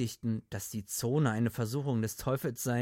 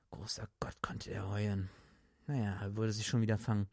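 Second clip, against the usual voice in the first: soft whispered aside; whispering; 3 semitones lower, 4 dB quieter than usual. A narrator's reading. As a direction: whisper it in disbelief. Narrator's hushed aside.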